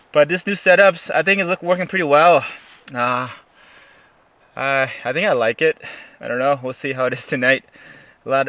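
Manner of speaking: stiff lips from the freezing cold; numb cold mouth. Real, not acted. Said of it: "My mouth is just, uh, it's just hard to talk".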